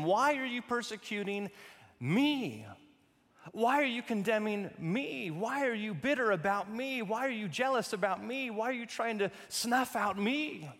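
pressing questions with "me" stressed at each end; insistent questioning. Acted. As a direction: build a list of pointed questions, each landing on "me". Voicing Christ confronting Saul, repeated me.

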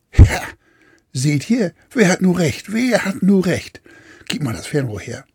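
smug, triumphant captain crowing; gloating captain. Acted. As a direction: crow about being right. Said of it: "zischte der Captain". (triumphierender, selbstgefälliger Kapitän)

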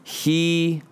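slow, drawn-out sincere plea; preacher urging listeners, slow and earnest. Acted. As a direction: let it sink in slowly. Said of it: "get this phrase in your head".

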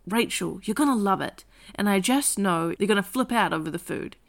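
calm audiobook reading voice with lightly voiced characters; story narration. A narrator's reading. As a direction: read it like an audiobook for grown-ups.

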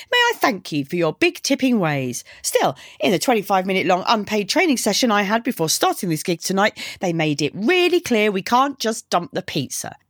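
lightly played fed-up, cheeky girl; lightly voiced sarcastic girl. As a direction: rattle off a mock-grateful rant as the delivery girl. Girl's sarcastic speech in story.

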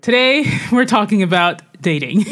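laughing nervously through it; nervous giggle while talking. Real, not acted. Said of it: "Why are you laughing nervously?".

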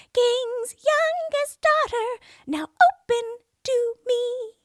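high, loud, slow frog call; crying frog at the door. A narrator's reading. Frog calling the princess through the door, high and loud.

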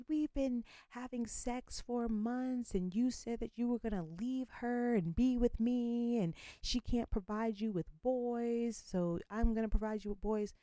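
hammed-up other woman demanding he leave his wife; mocking the mistress. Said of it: "she just goes in".

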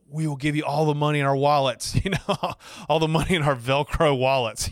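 overjoyed, half-laughing pleading; playful acted eagerness; retold eager offer. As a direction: offer everything in comic desperation.

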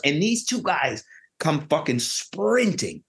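usual speaking voice

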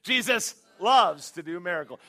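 rousing shouted chant; shouted refrain. Shown as a demonstration. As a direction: shout LOVES loud for the room to echo. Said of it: "Say it with me".

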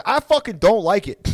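high mock-indignant fighter; Nick. Fighter contradicting his interviewer, high mock indignation. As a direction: cut the interviewer off with sulky protest. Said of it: "that Nick was like".

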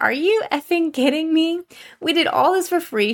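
high, indignant exclamation; retold outrage. Owner venting about the ungrateful client, high and indignant. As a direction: let the disbelief burst out.

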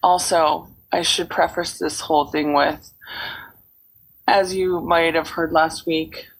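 hoarse, cold-roughened voice; froggy hoarse voice. Real, not acted. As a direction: speak through a croaky sick throat. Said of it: "I sound like I've swallowed a frog".

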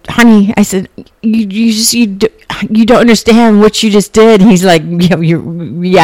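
telling him heaven is real, in breathless awe; awestruck outburst. Retold or imitated.

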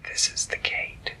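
soft whispered tiny creature voice; whispery butterfly voice. Acted. Butterfly speaks to Skyla.

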